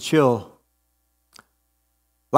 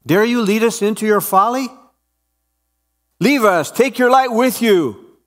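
scornful rebuke; 7 semitones higher than usual. Acted. Dweller rejects the woman.

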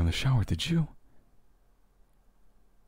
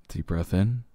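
breathing coach; slower than usual. Shown as a demonstration. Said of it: "let's do a little bit of a breath exercise".

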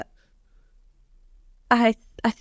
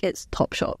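deadpan whisper; 4 dB quieter than usual. Retold or imitated. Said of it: "I was like".

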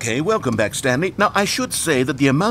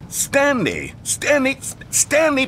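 calling out; slower than usual. Acted. Narrator calling out to Stanley.

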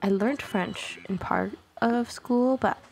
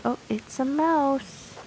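slow, higher, drawn-out delight; delighted discovery; 6 semitones higher, slower than usual. Real, not acted. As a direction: stretch it out in happy surprise. Spotting a mouse figure.

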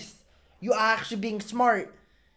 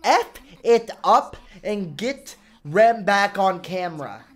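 emphatic, higher-pitched bursts; fired-up urging; 3 semitones higher, 4 dB louder than usual. Real, not acted. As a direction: punch out each order, egging them on. Urging characters to fight.

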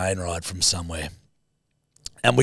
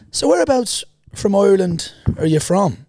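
suspicious trolley lady; 9 semitones higher, 4 dB louder than usual. Retold or imitated. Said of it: "she's like".

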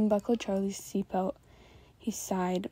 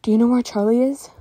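out of breath from swimming, louder; huffing; 3 semitones higher, 11 dB louder than usual. A narrator's reading. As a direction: gasp the question out after a hard swim. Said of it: "while huffing".

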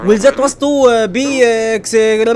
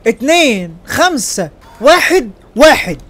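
higher, each digit on its own; calling out digits; 3 semitones higher, 3 dB louder, much slower than usual. Real, not acted. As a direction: announce the numbers one at a time, spaced out. Calls out code digits, then repeats. (ينادي الأرقام بصوت عالي رقم رقم)

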